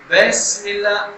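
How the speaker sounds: "بسم" slow, with a broad "bes"; drawn-out, over-heavy start on "بسم"; too-heavy ba. Retold or imitated. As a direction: imitate the mistake, thick "بسم". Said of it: "یہ موٹا ہو گیا نا با".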